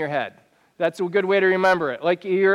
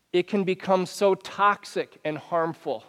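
ordinary talk

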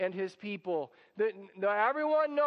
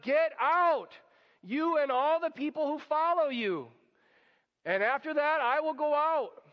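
Pharaoh ordering them out; 5 semitones higher than usual. Retold or imitated. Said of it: "They're like".

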